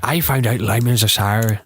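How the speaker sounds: failed attempt at Irish; poorly faked Irish accent; bad Irish accent. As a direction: do a clumsy Irish imitation. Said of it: "That was bad".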